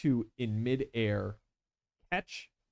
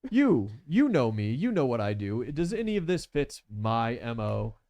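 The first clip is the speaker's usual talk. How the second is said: polite gentleman villain; 3 semitones higher than usual. Acted. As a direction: feign innocence with fussy politeness.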